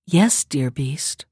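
low, slow, near-whispered yes; soft answer. A narrator's reading. Beauty accepts the beast's marriage proposal, answering softly. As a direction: answer very softly, drawing it out tenderly. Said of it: "she answered softly".

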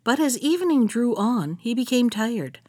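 gentle folktale narration, read aloud; unhurried storyteller reading to children; elder storytelling. A narrator's reading. Reads folktale aloud to listeners.

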